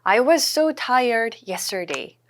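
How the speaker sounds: very slow, every word laid out; slow model sentence. Shown as a demonstration. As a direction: spell it out slowly for learners. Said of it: "I was죠". (아주 천천히 또박또박)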